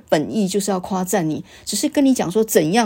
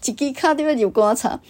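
harsh scolding quote; 6 semitones higher than usual. Retold or imitated. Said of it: "这个话是非常严厉的".

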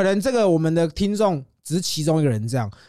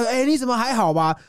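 1 mock concern; 7 semitones higher than usual. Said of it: "还要".

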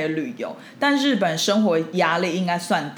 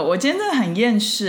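rough hungover morning voice; croaky throat after drinking; 3 semitones higher than usual. Real, not acted. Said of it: "这声音怎么办".

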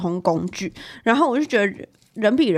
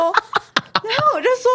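边笑边说，放慢; laughing; 13 semitones higher, much slower than usual. Real, not acted. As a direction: talk through real laughter, slowly. Laughing while retelling. (笑着慢慢说)

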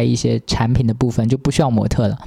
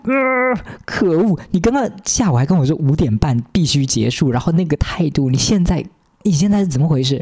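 higher, mock-indignant; exasperated retort; 4 semitones higher than usual. Retelling her irritated jab at the two-faced driver. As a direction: complain with rising irritation. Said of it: "我讲".

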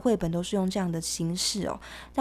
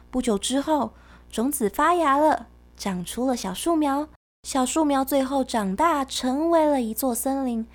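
put-on reading to a toddler; 2 semitones higher than usual. Reads the picture book story.

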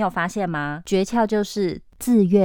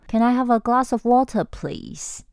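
polite request; 6 semitones higher than usual. Shown as a demonstration. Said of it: "你对家人说".

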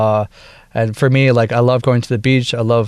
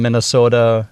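Minnesota accent. Real, not acted. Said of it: "I actually went into my Minnesota accent real quick".

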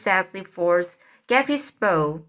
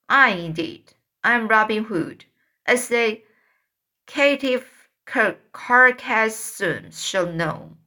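stagey fake archaic declaiming. Tom plays Robin Hood.

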